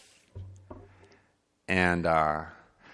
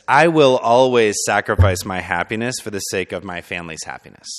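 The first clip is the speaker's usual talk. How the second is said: solemn vow; 6 dB louder than usual. Retold or imitated. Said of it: "the vow sounded like this".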